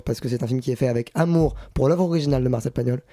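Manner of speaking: ordinary talk, nothing marked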